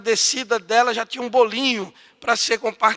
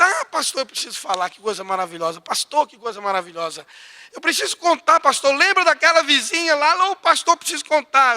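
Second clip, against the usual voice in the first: excited, louder and higher rush; euphoric; 6 semitones higher, 4 dB louder than usual. Retold or imitated. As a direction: burst with news to tell the pastor. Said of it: "toda eufórica". (euforia de mulher contando a bênção, mais alta)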